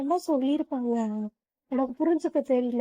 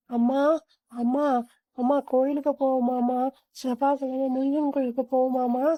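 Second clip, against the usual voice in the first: raised voice calling to mother from another room; louder, pleading call to go to the temple; 4 dB louder than usual. Acted. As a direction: call her loudly so she hears.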